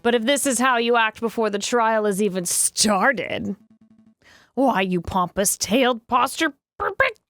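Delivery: haughty rebuke with big pitch swoops; pompous scolding. Acted. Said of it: "That was really pompous".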